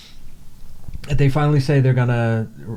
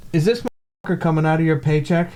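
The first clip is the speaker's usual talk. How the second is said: retold indignation; 4 semitones higher, faster than usual. Retold angry rant at service agent.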